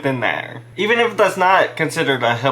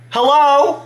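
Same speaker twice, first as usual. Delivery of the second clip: high, louder, disbelieving hello; are you serious, said sharply; incredulous Hello tossed at the court; 10 semitones higher, 4 dB louder than usual. Real, not acted. Incredulous at lawyer's suggestion.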